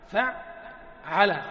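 فعل drawn out slowly, showing the doubled ayn. Shown as a demonstration. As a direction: stretch فعل slowly for the class.

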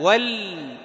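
"ول" held on a closed, vowelless l; lam with sukun. Shown as a demonstration. Teacher tells students to still the lam, "ول" ending on pure l. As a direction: say "ول" as wal, resting on the l. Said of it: "تسكن اللام".

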